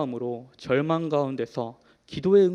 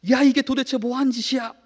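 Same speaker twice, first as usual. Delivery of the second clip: a real-sounding furious shout, louder and much higher; angry yell; 8 semitones higher, 7 dB louder than usual. Retold or imitated. Father yelling at his two-year-old over the broken laptop, furious shout. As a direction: bark it at the toddler like a furious father. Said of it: "라고 소리를 막 질렀습니다".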